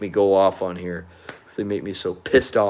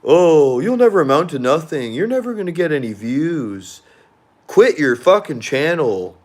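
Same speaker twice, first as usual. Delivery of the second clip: higher sneering taunt; mocking trolls; 5 semitones higher than usual. Trolls taunting him in comments, higher sneering mock voice. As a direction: jeer like an online troll. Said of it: "'Cause they keep saying".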